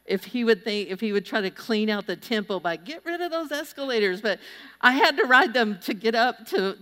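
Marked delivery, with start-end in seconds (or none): 2.8-4.2 mock command. Imagined Jesus clearing out the temple.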